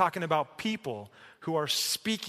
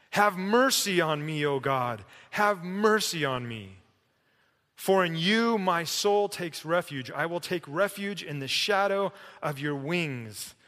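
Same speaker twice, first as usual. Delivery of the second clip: raised, pleading psalm reading; crying out; 3 semitones higher than usual. Retold or imitated. Preacher voices David in the cave to God, crying out. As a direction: cry it out as a prayer for refuge. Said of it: "crying out to God".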